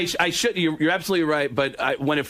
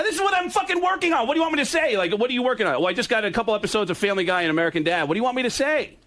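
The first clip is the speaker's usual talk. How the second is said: real exasperation, higher and hurried; exasperated self-defence; 5 semitones higher, faster than usual. Real, not acted. Guest defends his work to an accuser, exasperated. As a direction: push back, pitched up and defensive. Defends himself against angry Yucko.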